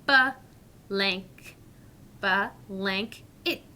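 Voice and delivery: ba-lank-it stretched slowly, syllable by syllable; slow syllable demo. Shown as a demonstration. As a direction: break the long word into parts, slowly. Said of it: "Slowing down is always helpful".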